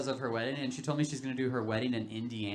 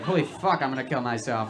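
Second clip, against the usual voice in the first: louder, laughing alarm; loud mock despair; 6 dB louder than usual. Sitting with the therapy dog, a loud laughing panic. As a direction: blurt it out in comic panic.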